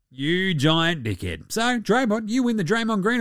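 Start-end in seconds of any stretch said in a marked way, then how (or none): 0.1-1.5 slow, drawn-out insult. Real, not acted. Host insulting a player, slow mock shout. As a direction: stretch every word of the insult.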